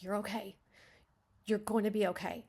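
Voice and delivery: "You're okay", full stop, pause, then "going to be okay"; measured reassurance, pausing after the first "okay"; two separate sentences. Acted. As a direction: give each "okay" its own sentence ending. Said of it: "those are two separate sentences".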